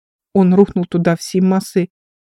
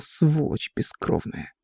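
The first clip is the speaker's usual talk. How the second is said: low, slow, breathless grumble under the breath; grumbling into the ground; 3 semitones lower, 8 dB quieter, slower than usual. A narrator's reading. Injured officer cursing the departed servant, muttered low. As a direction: curse him quietly into the dirt. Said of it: "заворчал в землю".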